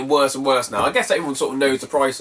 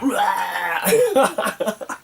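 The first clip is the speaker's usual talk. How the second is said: mock ranting roar; 6 semitones higher than usual. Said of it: "a full-on argument".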